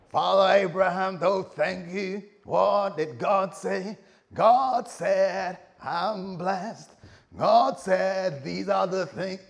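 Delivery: loud, high, drawn-out exclaiming; excited. Acted. Abraham and family marvelling at God's words, loudly excited. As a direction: stretch each phrase in hammed-up, high excitement. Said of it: "he will have been so excited".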